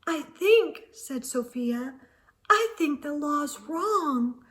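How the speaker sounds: a hint of a hesitant second grader; small timid voice. Sophia softly objecting to the clerk, timid and unsure. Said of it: "her second grade voice didn't sound very strong".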